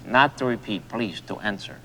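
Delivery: measured, silly put-on voice; put-on funny voice. Man coaching his friend in the game, in a silly put-on voice. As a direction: keep up the comic voice while correcting her. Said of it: "like this".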